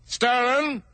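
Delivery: high sharp cry of accusation; exclaiming. Acted. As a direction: snap out the accusation. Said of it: "the king exclaimed".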